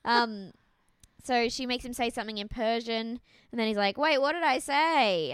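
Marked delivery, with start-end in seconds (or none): 4.0-5.3 slow, loud, higher mock confusion; retold bewildered question. Bachelor asking what he just said, mock bewilderment. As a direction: draw out the puzzled question.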